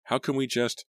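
high, urgent protest cut short; insistent. A narrator's reading. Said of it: "I insisted".

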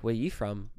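lightly put-on Aussie accent; a hint of fake Australian. Asking the two girls back, lightly faked Australian accent. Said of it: "still sticking with our Australian accents".

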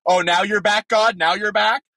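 sarcastic Gideon. Pretend. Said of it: "That's what I'd be thinking if I was Gideon".

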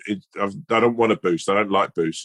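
put-on a kid outraged at the swap; indignant little boy. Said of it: "And he said".

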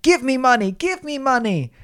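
high-pitched demanding kid impression; high, insistent whine of a mimicked kid; mock screaming child. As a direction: imitate a child pestering for cash. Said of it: "this five-foot child screaming at me".

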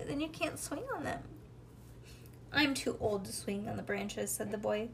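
animated bedtime story, lilting character lines; storybook reading to a child. A narrator's reading. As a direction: read a picture book aloud, lifting the tree's lines. Reads a storybook aloud to child.

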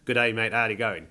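lightly put-on Australian accent. Shown as a demonstration. Host asks guest for his version, light Australian accent. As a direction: model the Aussie greeting for a guest to copy. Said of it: "in an Australian accent".

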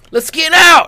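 very loud, shrieking falsetto imitation; high-pitched voice. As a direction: mimic him with a piercing high yell. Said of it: "in such a high-pitched voice".

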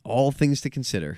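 winded, out of breath after a long run of talk; out of breath, catching air between words. Real, not acted. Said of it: "I'm out of breath".

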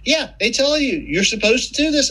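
high mocking doctor voice; sing-song smug doctor. Patient mimicking what doctors said, high mock voice.

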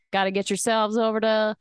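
thick put-on Southern accent. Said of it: "a really thick Southern accent?".

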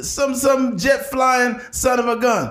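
slow, high, shouted boast; Ric Flair impression. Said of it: "He's like".

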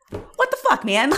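very high mock-exasperated squeal; exasperated protest. Wife to husband who won't listen, mock-exasperated high protest.

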